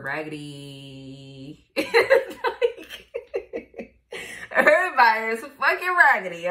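words bursting out in laughter; laughing. Real, not acted. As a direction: crack up at your own joke. Cracking up at own joke.

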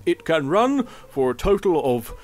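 salesman pitch. Acted. Automaton demo pitch.

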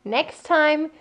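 1 mild complaint. Retold or imitated. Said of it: "I think I said".

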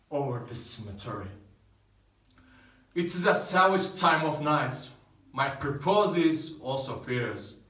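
a savage, hungry threat; fierce threat. Acted. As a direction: threaten him with violence. Romeo threatens servant with violence.

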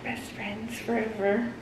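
soft, slow, dreamy; mood swings. Acted. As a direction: whisper it sweetly. Sudden soft dreamy line.

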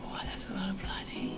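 near-whisper, under the breath; hushed amazement. Real, not acted. Owner watching bird's blood draw, hushed amazement. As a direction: murmur it in hushed surprise.

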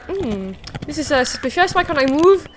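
lightly voiced puzzled character, rising in pitch; glitching character's puzzled voice. Player voicing the stuck, glitching animal, mock bewilderment. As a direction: playfully act out the bafflement. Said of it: "He's like".

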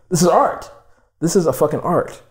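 thrilled squeal of approval; excited girlfriend. Retold or imitated. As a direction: sell it like she just saw a masterpiece. Girlfriend excitedly praising chair.

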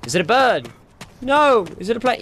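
high, loud hammed-up cry; mock superhero catchphrase. Gamer jokes about a bird, hammed-up high exclaim. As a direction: ham up the old bird or plane line.

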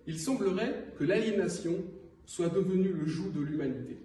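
earnest poem reading with deliberate pauses; solemn spoken verse, pausing between phrases; poetry recital. Acted. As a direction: recite it phrase by phrase, letting line endings drop. Reads second poem aloud.

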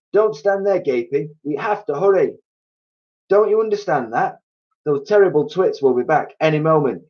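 high, urgent rallying cries; bossing everyone along in a frantic hurry; frenzied excitement. A narrator's reading. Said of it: "in a frenzy of excitement".

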